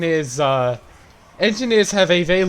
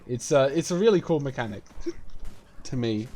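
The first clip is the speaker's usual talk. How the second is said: hiccups; 4 dB quieter than usual. Real, not acted. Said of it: "God, I'm hiccuping now".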